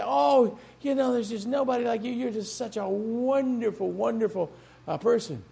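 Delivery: mock an admirer's flattery; mock gushing. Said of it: "have people say".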